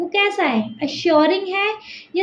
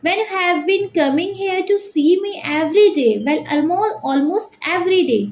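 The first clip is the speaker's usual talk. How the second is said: slow, careful read-aloud of an English extract; story reading; 2 semitones higher, much slower than usual. A narrator's reading. Teacher reading the river's words to students, slow and deliberate. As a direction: read the passage slowly to the class.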